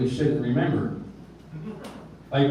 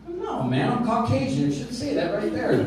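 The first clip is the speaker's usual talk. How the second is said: naive innocence; 7 semitones higher than usual. Retold or imitated. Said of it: "answering the cop".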